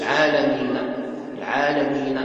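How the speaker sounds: chanted العالمين with its final fatha sounded; incorrect rawm on fatha. Shown as a demonstration. Teacher shows rawm on fatha is not allowed, final vowel sounded. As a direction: say العالمين ending on a short a after the n. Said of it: "لا يصح".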